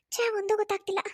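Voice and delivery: under the breath, frustrated; whispered self-reproach. Acted. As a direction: whisper it to herself, annoyed. Muttering to herself. (ತನಗೆ ತಾನೇ ಪಿಸುಗುಟ್ಟುವ ಬೇಸರ)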